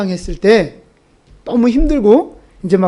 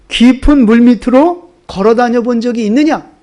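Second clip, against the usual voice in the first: God's challenge; 3 semitones higher than usual. Retold or imitated. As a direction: voice God pressing Job with questions. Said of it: "이런 질문들을 하셨어요". (하나님이 욥에게 묻듯 장엄하게 추궁하며)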